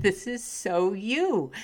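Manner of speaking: slow, amused, smiling. Retold or imitated. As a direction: say it through a fond laugh. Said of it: "hear the smile in my voice".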